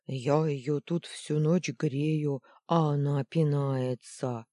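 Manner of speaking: slow, loud, hurt booming beast voice; offended thunderous voice. Acted. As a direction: boom it out slowly like a wounded giant. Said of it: "раздался обиженный громовой голос".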